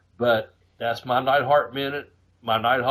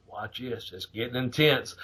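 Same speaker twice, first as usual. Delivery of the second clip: whispered; 3 semitones lower, 6 dB quieter than usual. Retold or imitated. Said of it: "And Jake whispered".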